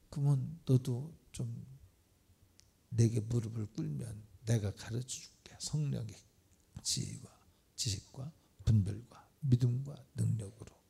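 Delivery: hushed, intimate whisper; whispered promise. Acted. God whispering a promise to the kneeling believer. God's promise voiced to listener.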